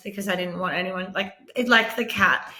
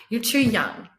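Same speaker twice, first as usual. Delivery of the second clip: laughing dismissal; 3 semitones higher than usual. Retold or imitated. Specialist dismissing rare tumor.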